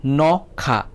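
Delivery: "Nokha" split as no, kha; syllable by syllable. Shown as a demonstration. Teacher checking for two syllables, "Nokha" in two parts. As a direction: put a small break between no and kha in "Nokha". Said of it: "Kainui kokthor da".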